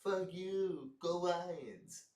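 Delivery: jeering put-on voice; mock player taunt. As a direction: imitate a dazed player cursing. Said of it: "He just wanted to be like".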